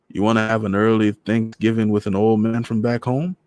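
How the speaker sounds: put-on gentle Trinidadian old man; lonely widower asking her; lightly voiced Trini old man. Voices Mister Morris.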